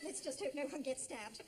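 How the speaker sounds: normal talking voice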